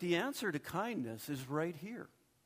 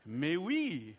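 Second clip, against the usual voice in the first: hammed-up French accent with a laugh; mock French; 4 dB louder than usual. Pastor jokes about French babies, mock French accent. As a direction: toss it off like a playful Frenchman, laughing. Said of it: "babies cry with an accent".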